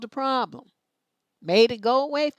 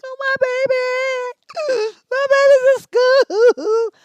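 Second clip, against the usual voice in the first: high, loud, slow hammed-up wail; mock sobbing; 12 semitones higher, 11 dB louder, much slower than usual. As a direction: wail it like a mom falling apart at drop-off. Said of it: "I was a mess".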